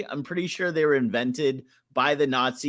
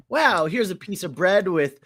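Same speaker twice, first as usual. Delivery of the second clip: higher, hammed-up wow; mock amazement; 5 semitones higher, 3 dB louder than usual. Host gushing over avocado on bread, mock amazement. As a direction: act overly impressed. Voices awe at fancy avocado toast.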